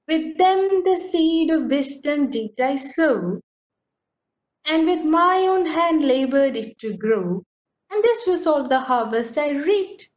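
reading a quatrain to the class; poem recitation. Shown as a demonstration. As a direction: recite the verse with lift. Reads quatrain aloud.

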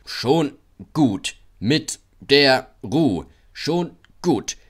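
slow, grumbling truck voices; grumbling freight cars, slow. A narrator's reading. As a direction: drag it out like sulky wagons. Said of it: "murrten die Güterwagen".

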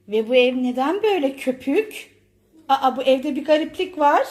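lightly acted sleepy puzzled mom; mock waking mother. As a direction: play a mom waking up confused. Mom acting just woken up. (uykulu şaşkın anne rolü)

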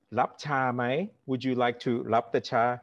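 mock Indian-English offer of tea; a hint of an Indian accent, rising questions; light Indian accent. Mimicking a Thai host's tea offer, light Indian accent. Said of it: "I like that you do an Indian accent".

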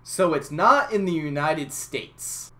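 slow, drawn-out mock of a clueless cashier; mocking a clueless girl. A Burger King girl's clueless question to the narrator, slow and mock-dim. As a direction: say it slowly, like the dumbest question ever. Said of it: "One of the girls goes".

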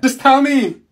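loud, high, fed up; impatient shout. Acted. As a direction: yell for the point. Impatient classmate demands the point.

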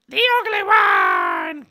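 a deep, silly cartoon yell; Teen Girl Squad impression. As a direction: bellow it like a goofy cartoon character. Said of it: "a mixture of Teen Girl Squad".

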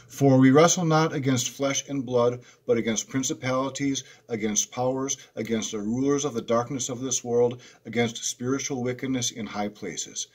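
preacher reading Ephesians aloud; scripture reading. Acted. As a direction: read the verse out to the congregation.

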